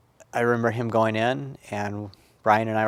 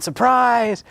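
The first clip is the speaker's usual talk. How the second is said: loud, high, gleeful announcement; retold surprise shout; 13 semitones higher, 6 dB louder than usual. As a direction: imitate someone springing a happy surprise, voice leaping up. Sister springs the skiing surprise.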